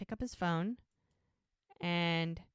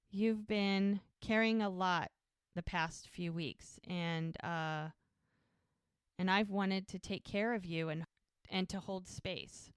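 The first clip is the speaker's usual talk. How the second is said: tender reassurance. Retold or imitated. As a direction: retell a heartfelt confession, taking time over it. Man leading up to proposal, retold.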